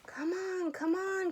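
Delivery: high, loud call from the treetop. A narrator's reading. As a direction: call urgently to the others. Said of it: "called the bird from the treetop".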